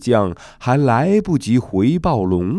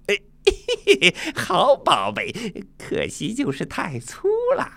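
high, giggling monkey voice; quick monkey giggle, high excited chatter; delighted Sun Wukong; 12 semitones higher, faster than usual. Acted. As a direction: squeal with glee over the treasure. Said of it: "孙悟空顿时觉得眼前一亮".

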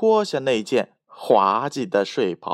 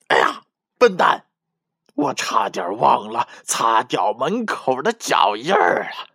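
a lightly voiced scheming wolf, pleased with himself; sly big bad wolf. Big bad wolf plotting to himself, lightly gloating. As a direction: gloat like a cunning wolf, then a startled "oops".

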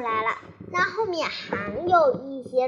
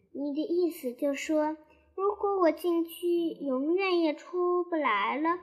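sad question; 2 semitones higher than usual. Acted. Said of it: "维尼伤心地说".

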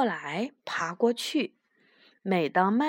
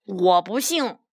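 flat-out refuse, only slightly raised; mildly raised voice; 3 semitones lower than usual. Acted. Big rabbit refusing to believe the little ones, mildly raised voice. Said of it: "浩胜哥大声地说".

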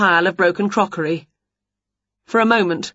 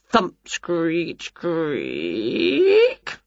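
acted sound effects; much slower than usual. A narrator's reading. Door noises acted out in narration.

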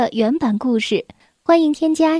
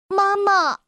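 heartfelt; 6 semitones higher than usual. A narrator's reading. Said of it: "突然发自内心地说出了一个他从来没有说过的词".

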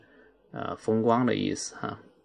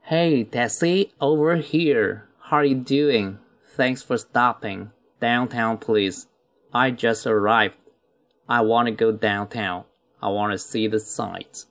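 unhurried dialogue read for learners; slow first reading. Shown as a demonstration. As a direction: read each phrase slowly and clearly. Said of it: "first slow reading of the dialogue". (慢速朗读对话)

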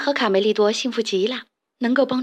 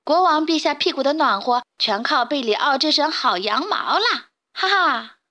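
mocking laughter; 4 semitones higher than usual. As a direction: taunt him and laugh. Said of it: "不怀好意地大笑".

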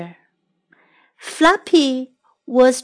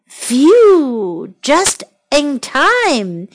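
relieved sigh; much slower than usual. Acted. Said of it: "he said".

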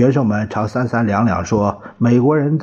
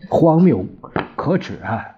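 indignant outburst; 5 semitones higher than usual. Acted. Newspaperman tells the governor the argument is shameful, indignant outburst. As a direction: spit out the word in outrage. Journalist denounces absurd argument.

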